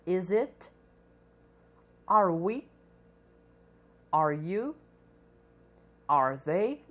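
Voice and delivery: slow, clear questions for students to repeat; model questions to repeat. Shown as a demonstration. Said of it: "Eu irei repetir a forma do verbo to be". (perguntas modelo para repetir)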